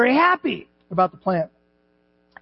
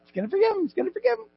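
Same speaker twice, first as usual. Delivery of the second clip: frustrated Jonah; 10 semitones higher, much faster than usual. Retold or imitated. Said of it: "All frustrated and angry and mad".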